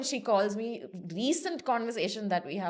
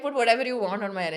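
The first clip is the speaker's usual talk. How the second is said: repeated louder and quicker with a laugh; emphatic repeat; 6 dB louder, faster than usual. Retold or imitated. Telling mom she may style her hair, emphatic laughing repeat. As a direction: say it again, louder and brighter. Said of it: "I was like".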